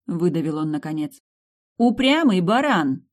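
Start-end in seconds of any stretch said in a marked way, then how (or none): 1.8-3.1 a loud, high, slow shout of «Упрямый баран!»; slow defiant yell at the duke. A narrator's reading. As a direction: yell it at the door. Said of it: "крикнула я".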